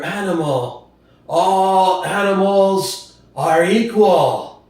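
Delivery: lightly voiced old boar, earnest speech; a hint of an aged pig rousing the farm; old boar preaching to the animals; old boar orating.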